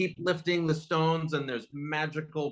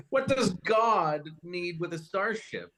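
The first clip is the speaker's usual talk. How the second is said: laughing quote; 3 semitones higher than usual. Real, not acted. Quoting Kirk while laughing.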